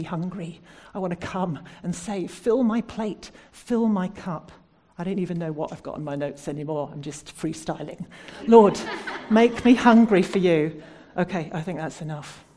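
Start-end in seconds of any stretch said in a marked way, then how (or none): 2.3-4.5 slow, louder plea; pleading cry. Acted. Preacher modelling a hungry prayer, slow loud plea. 8.5-10.8 loud, slow prayer broken by a laugh. Real, not acted. Preacher closing her message, loud prayer with a laugh.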